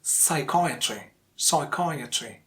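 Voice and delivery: psychiatry said slowly with CHI most prominent; second-syllable stress. Shown as a demonstration. Teacher gives another example, slow psychiatry with stressed second syllable. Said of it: "the second syllable is the stressed syllable".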